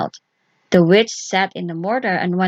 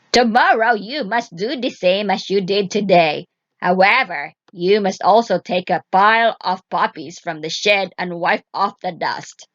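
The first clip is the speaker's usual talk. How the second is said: put-on commanding old witch. Witch ordering Vasilisa before bed, stern. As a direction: lay out the orders coldly.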